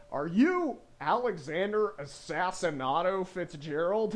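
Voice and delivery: mock southern accent, slow and drawn-out. Immigration officer questioning a traveler about his name, southern accent. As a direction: put on a slow southern drawl. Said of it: "they have a southern accent".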